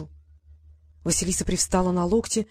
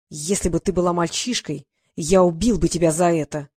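louder, furious threat; cold fury; 2 semitones lower, 3 dB louder than usual. Acted. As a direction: spit it out in icy rage. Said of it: "сменилась холодной злобой".

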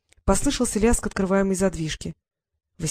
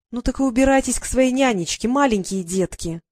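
angry retort; 4 semitones higher than usual. Acted. Sister tells siblings to go, scornful shout. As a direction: throw it at them in scorn.

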